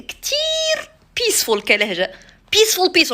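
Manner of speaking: put-on high, slow, cool Lebanese accent. Vlogger showing how peaceful the Lebanese dialect sounds: Lebanese accent. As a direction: stretch it out sweetly in Lebanese accent. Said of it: "اللبنانية نحسهم هكا كول".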